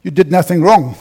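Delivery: loud self-justifying mind. Retold or imitated. The mind insisting to the pastor, loud and defensive. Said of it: "My mind says".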